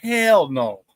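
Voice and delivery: drawn out, scornful "Oh, hell no"; slow scornful refusal. Retold or imitated. Answering a Packers fan, slow and scornful. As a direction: shut it down slowly, scoffing. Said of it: "And I said".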